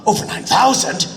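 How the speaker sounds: natural reading. Retold or imitated. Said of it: "it'd be the over nine thousand one".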